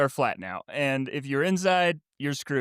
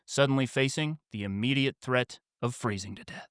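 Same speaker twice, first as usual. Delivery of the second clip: measured audiobook-style scene setting; story narration. A narrator's reading. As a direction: read the opening of a story aloud, with deliberate pauses. Reads out the story's opening.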